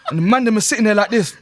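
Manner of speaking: shouted through laughter; loud and laughing, half-yelled. Real, not acted. Laughing while mocking the men.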